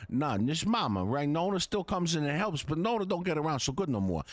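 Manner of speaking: put-on mild New York Italian Yankee accent, homey. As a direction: boast about mama's cooking in a light Yankee accent. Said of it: "That's not bad".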